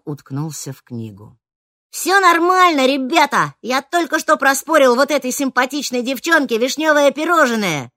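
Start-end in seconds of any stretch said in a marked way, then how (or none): 1.9-7.9 higher, louder boastful proclamation; loud announcement. A narrator's reading. Нером объявляет всему кафе, loud boastful. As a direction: announce it to the whole cafe. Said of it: "громко заявил Нером".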